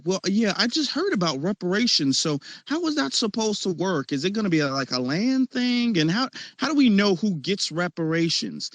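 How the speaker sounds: mock naive questioner, pitched a bit up; lightly mocking fake curiosity; feigned cluelessness. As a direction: imitate someone playing dumb with innocent questions. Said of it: "they act as if they don't know".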